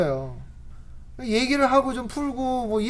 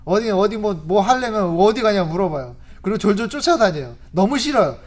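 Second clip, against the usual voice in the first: ordinary talk, nothing marked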